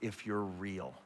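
soft, quiet pleading prayer; quiet desperate prayer in a dorm room; hushed prayer. Retold or imitated. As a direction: pray it low, alone on your knees. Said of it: "I just prayed this prayer".

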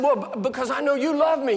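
high, loud protesting cry; desperate cry. Retold or imitated. Preacher crying out to God in the car, high and loud. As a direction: shout it up at heaven in protest.

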